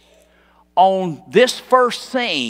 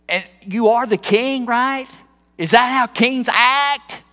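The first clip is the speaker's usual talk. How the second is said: needling mock-questions with rising pitch; acted wifely condescension; condescending, sarcastic; 3 semitones higher than usual. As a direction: taunt him with a sarcastic question. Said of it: "kind of being condescending and sarcastic".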